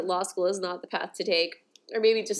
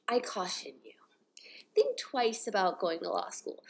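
quiet, grave caution to the listener; hushed warning; 4 dB quieter than usual. Real, not acted. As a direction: drop to a whisper for the warning.

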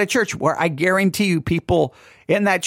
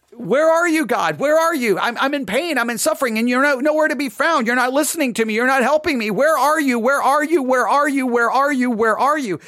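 high, raised, insistent plea; crying out; 8 semitones higher, 4 dB louder than usual. Acted. David in pain calling out to an absent God, crying out. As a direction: pile up the pleas, high and relentless. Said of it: "he's crying out to God".

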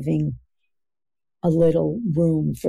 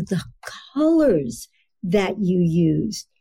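sincere descriptive praise. Shown as a demonstration. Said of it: "as opposed to".

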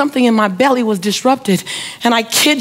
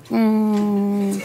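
regal window hum; 4 dB quieter than usual. Retold or imitated. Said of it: "the window went down regal, like".

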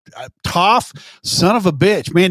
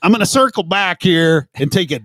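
corporate jargon parody. Pretend. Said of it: "I can't believe you just put all those in".

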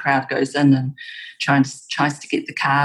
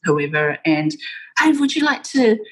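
breezy imitation of casual networking, pitched up; casual chat; 3 semitones higher than usual. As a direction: imitate an easy, casual invitation with a lilt. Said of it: "really casual conversations like".

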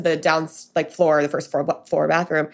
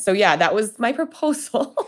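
laughing; 3 semitones higher than usual. Real, not acted. Wrapping up story, laughing.

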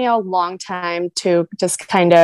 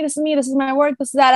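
confident self-promoter; 5 semitones higher, faster than usual. Retold or imitated. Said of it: "I would see people around me being like".

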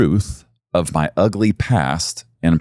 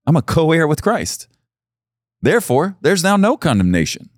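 triumphant proclamation; 11 semitones higher than usual. Real, not acted. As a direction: build to a triumphant shout. Rising proclamation of faith.

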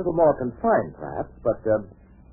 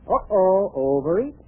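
surprised; 6 semitones higher, 4 dB louder, slower than usual. Acted. Ad skit question.

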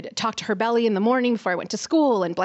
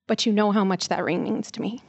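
gentle apology. Retold or imitated. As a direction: plead with the brother, calm. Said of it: "and I apologized".

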